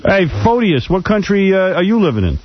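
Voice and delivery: high-pitched confrontational question; indignant challenge. Real, not acted. Host challenges a caller who puts the country down, indignant.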